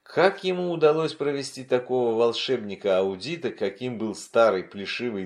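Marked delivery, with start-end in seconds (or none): none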